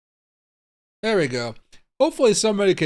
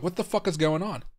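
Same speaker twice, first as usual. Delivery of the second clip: heavy breaths between words; huffing and puffing; 3 semitones higher, 3 dB quieter than usual. Real, not acted. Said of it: "I'm just, like, huffing and puffing".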